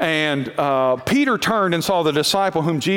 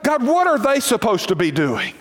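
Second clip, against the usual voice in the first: higher, pointed question about others; nosy complaint to God; 4 semitones higher than usual. Shown as a demonstration. Preacher shows the wrong prayer, prying into others. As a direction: point the finger at them. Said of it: "it is so dangerous to get your eyes on what".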